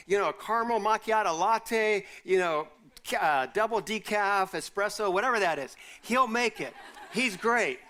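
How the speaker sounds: chuckling through a cheerful list; amused, laughing pitch. Retold or imitated. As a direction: let laughter spill into the words. Playful coffee orders, laughing.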